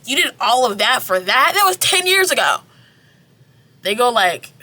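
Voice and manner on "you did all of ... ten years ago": incredulous friends. Retold or imitated. Friends asking Ren why he did all that, rising disbelief. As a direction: pitch climbing to high disbelief.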